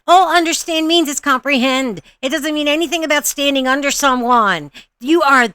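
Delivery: exasperated, voice climbing in disbelief; exasperated rant. Real, not acted. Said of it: "my brain hurts already".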